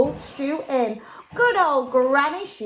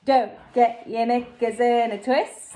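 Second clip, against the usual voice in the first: calm Jack. Acted. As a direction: brush off the panic coolly. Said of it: "said Jack".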